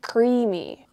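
speaking between bites; talking while chewing. Real, not acted. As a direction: mouth partly full. Seen 2: Bites bar at 1.4–1.9, then appears to chew while talking.

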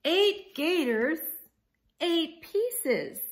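loud, high overwhelmed count; alarmed counting. Acted. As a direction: blurt out the numbers in dismay.

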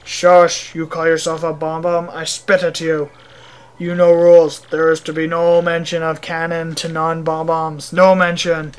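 stern mock Russian, loud on the commands; a touch of Russian indignation; scolding Russian mayor. Mayor scolds visitor for mentioning cannon, stern Russian accent.

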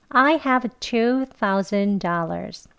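"I have two thousand dollars" stretched slowly with every word separate; slow classroom model sentence; slow practice. Shown as a demonstration. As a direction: spell it out slowly for learners. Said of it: "천천히 같이 해볼게요".

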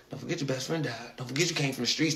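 hushed, low murmur, retold; whispering voice. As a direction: murmur it like the streets in his ear. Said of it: "started whispering to me".

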